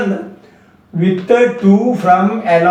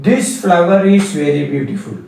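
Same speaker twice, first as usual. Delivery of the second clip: slow dictation; much slower than usual. Shown as a demonstration. Teacher dictates example sentence.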